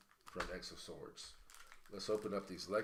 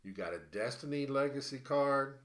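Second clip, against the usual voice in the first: out of breath; 4 semitones higher, 4 dB louder than usual. Real, not acted. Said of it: "I'm out of breath".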